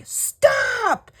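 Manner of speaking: sudden high shout cutting her off; loud yell. Retold or imitated. Mom yelling at daughter to stop, loud high shout. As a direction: snap it out as one loud yelled word. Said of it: "I yelled so loud".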